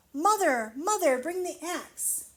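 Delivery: loud, high urgent yell. Acted. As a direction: shout for help while fleeing. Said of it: "he yelled".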